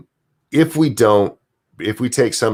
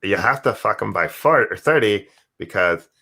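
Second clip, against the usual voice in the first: lightly voiced cult leader; Molyneux impression. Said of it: "you're doing the voice right".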